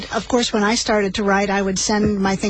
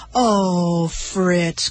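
tender cry. Acted. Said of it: "cried Mother".

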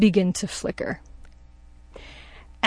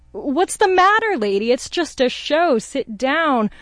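higher-pitched retold scolding of a lady; mock matter-of-fact; 4 semitones higher than usual. Construction worker tells the interrupting lady to sit down, matter-of-factly. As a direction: voice the worker telling her it's just a show, higher. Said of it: "very matter-of-factly says".

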